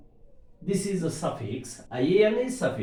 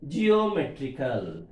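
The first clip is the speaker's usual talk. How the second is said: "geometrical" with MET stressed; stress before the suffix. Shown as a demonstration. Teacher giving students an example, stress on MET in "geometrical". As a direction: mark the syllable MET in "geometrical". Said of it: "syllable preceding the suffix is stressed".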